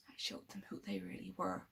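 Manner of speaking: low, very soft near-whisper; menacing hush. Acted. Villain telling Eleven how he exposed his parents, hushed.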